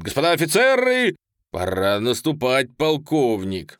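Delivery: loud, firm order, slowing on the rank; stern. A narrator's reading. General sternly ordering the colonel to attack. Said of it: "строго так говорит генерал".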